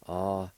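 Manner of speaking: ah-cha-yan slowly, with pauses between syllables. Shown as a demonstration. Teacher showing the second part, slow syllable by syllable. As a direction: sound out ah, cha, yan one by one. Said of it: "Second part".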